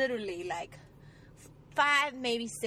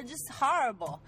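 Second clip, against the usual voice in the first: ordinary talk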